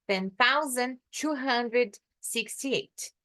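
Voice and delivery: slow, careful reading of "Ten thousand two hundred sixty-eight"; slow English number drill for students; slow model reading. Shown as a demonstration. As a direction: spell out each number slowly, as if for a learner. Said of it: "Coloca um H aqui no meio do hundred".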